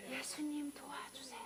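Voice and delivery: breathy whispered plea; whispered prayer. Shown as a demonstration. Preacher shows a quiet plea to Jesus, whispered. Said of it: "뭐 하셔야 돼요?".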